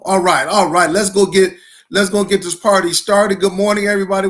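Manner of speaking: loud, pumped-up kickoff shout; rally the live audience to start the party; hype opener. Real, not acted. Host fires up his livestream viewers, loud and pumped.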